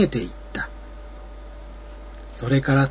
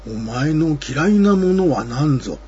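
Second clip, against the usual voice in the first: put-on old monster voice. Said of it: "そして上羽は".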